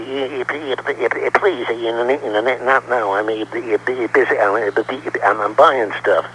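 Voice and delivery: stuttering cartoon pig voice; Porky Pig. Shown as a demonstration. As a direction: stammer through it like a flustered pig. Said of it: "can you do a Porky Pig?".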